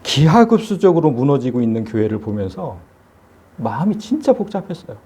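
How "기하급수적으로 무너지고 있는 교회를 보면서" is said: normal talking voice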